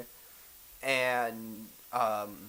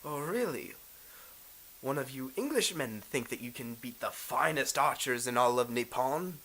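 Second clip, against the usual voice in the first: boisterous announcer. Acted. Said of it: "this big boisterous announcer".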